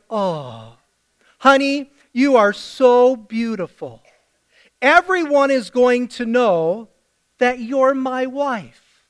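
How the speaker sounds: hammed-up loving husband, slow at the end; syrupy husband buttering up his wife; mock-romantic husband. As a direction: lay the flattery on thick for the wife. Abraham sweet-talking Sarah.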